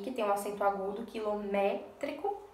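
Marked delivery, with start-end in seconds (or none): 1.1-2.4 "quilométrico" said slowly, leaning on MÉ; stress on MÉ. Shown as a demonstration. Teacher showing the strong syllable, "quilométrico" stressed on MÉ. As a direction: draw out quilométrico with the weight on its accented MÉ. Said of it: "A sílaba mais forte é essa daqui".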